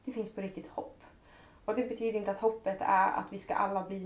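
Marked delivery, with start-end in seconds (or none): 0.0-1.0 hushed. Real, not acted. Quiet hopeful emphasis on hope.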